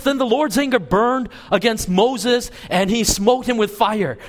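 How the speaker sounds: hammed-up preacher's wrong version; mock fire and brimstone. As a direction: fake a thundering wrathful verse for effect. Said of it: "No, it doesn't say that".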